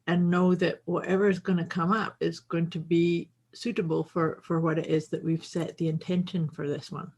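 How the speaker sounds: gently easing down, unhurried; calming voice. Real, not acted. Co-host reassuring listeners about riffing, calming voice. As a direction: soothe with an even, settled delivery. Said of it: "that's the calming voice".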